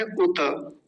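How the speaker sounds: उत as u-ta; full final ta. Shown as a demonstration. Teacher giving today's form, full-ta pronunciation. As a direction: end उत on an open vowel. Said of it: "तब इसको उत कह देते".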